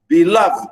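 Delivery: beloved with light be, strong second syllable; stress on LOVED. Shown as a demonstration. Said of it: "stress where la".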